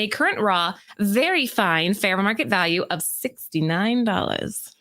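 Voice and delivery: even, presenter-style read; scripted list read. Acted. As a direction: read out the countdown entry to the audience. Reads prepared list segment.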